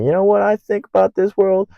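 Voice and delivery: a hint of a wild-eyed psych ward rambler; ranting crazy person. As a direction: play a lightly voiced madman ranting to nobody. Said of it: "some crazy person at the psych ward".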